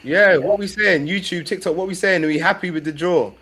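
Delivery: high, loud call for opinions; rallying the audience. Real, not acted. Co-host asking YouTube and TikTok viewers about the draw, calling out. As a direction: throw it out loud to everyone watching.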